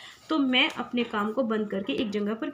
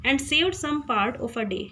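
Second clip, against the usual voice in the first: reading the poem line; much slower than usual. Shown as a demonstration. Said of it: "तो कवि का mood change हो जाता है".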